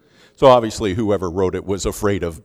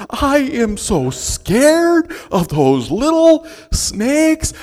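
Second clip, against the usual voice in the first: much higher, louder and slow, hammed-up fear; mock scared professor; 13 semitones higher, 7 dB louder than usual. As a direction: play a professor squealing about little snakes. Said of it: "Doctor Drulinger goes".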